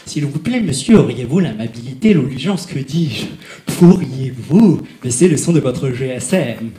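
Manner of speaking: overly polite. Retold or imitated. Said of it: "très gentiment et très simplement".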